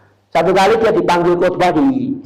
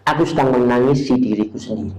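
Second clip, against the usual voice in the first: put-on old man's reply; 6 semitones lower than usual. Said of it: "Jawaban kakek ini".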